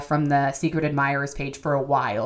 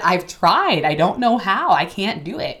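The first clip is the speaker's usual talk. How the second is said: exasperated pleading; 3 semitones higher, 6 dB louder, slower than usual. Retold or imitated. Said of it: "And I said".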